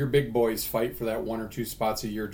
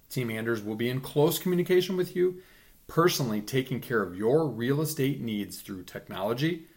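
ad read. Acted. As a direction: read it like a radio spot. Sponsor ad read.

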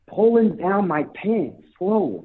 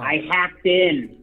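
slow menacing; 3 semitones lower, much slower than usual. Acted. Creepy caller reveals hack.

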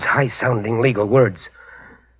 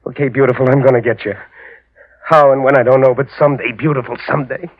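imitating the killer's threat; 4 dB louder than usual. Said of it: "he must have said to himself".

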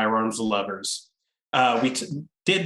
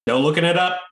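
louder, higher barked command; drill sergeant order; 6 semitones higher, 6 dB louder, faster than usual. Acted. Giving listeners orders.

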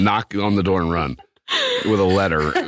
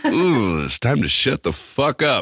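higher-pitched "ooh" of mock alarm; wary realization; 5 semitones higher than usual. Man realizing his partner means it, wary. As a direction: back off, knowing you're in trouble. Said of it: "I know the tone. I was like".

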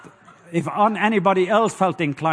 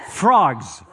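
shouted call; 3 semitones lower than usual. Shown as a demonstration. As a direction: bark it back to the crowd. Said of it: "Say it again".

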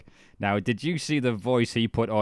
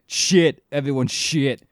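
mock dismissive; 3 semitones higher, 6 dB louder, slower than usual. Brothers mocked at competition.

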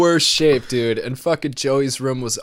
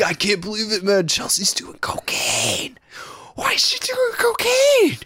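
half-whispered then higher whine; mock drunk whining; 7 semitones higher than usual. To the mom, mild drunk whine. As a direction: act drunk and upset, breaking high. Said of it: "I was like".

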